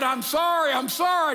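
high, loud flustered shout of apology; a high, loud, panicked retold apology; startled apology. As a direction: blurt it out, caught off guard and embarrassed. Startled gas man apologizing.

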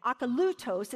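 Akalutos with the LU stressed; stress on third syllable. Shown as a demonstration. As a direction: lean on LU in Akalutos. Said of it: "have the accent on the third syllable".

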